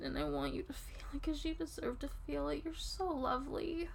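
soft intimate whisper. Real, not acted. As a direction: breathe it close to the ear.

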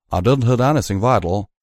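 slow speech through clenched teeth. A narrator's reading. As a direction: talk slowly with teeth clamped. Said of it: "He was speaking slow, his words sounding like they came through clenched teeth".

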